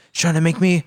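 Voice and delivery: mock his rant while cracking up; half-laughing impression of a bitter man. Retelling the character's rant, laughing.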